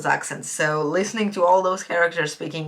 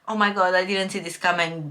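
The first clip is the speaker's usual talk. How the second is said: unimpressed mock surprise, near usual pitch; indifferent reaction. Reader reporting her real reaction to the twist, indifferent. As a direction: say it as if you couldn't care less. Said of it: "but I couldn't care less".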